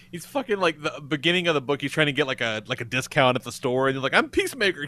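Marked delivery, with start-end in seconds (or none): 4.1-4.9 high, self-important announcement; pitched-up mock hero introduction; acted boast. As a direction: announce it proudly in a raised voice. Acting out a comic book boast.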